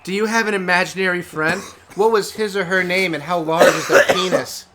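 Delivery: reading it through a laugh; can't keep a straight face. Shown as a demonstration. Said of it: "let me say that again".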